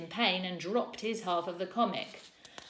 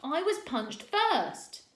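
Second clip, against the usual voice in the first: much higher, slow wail; 9 semitones higher, 5 dB louder, much slower than usual. A narrator's reading. Rowan pleading with the teacher, wailing. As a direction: whine it out pleading. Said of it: "Rowan's wailing".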